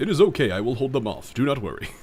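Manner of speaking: plain, matter-of-fact, no-fuss delivery. Retelling a scene, speaker voices Carl in a matter-of-fact deep voice. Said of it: "like he's got like that really matter of fact, deep voice".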